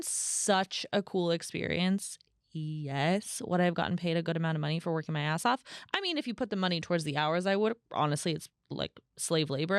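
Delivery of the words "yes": breathy whispered admission; whispered yes. Real, not acted. Admitting to viewers it would have been cool, whispered. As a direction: whisper the yes, half confessing. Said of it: "whispered admission".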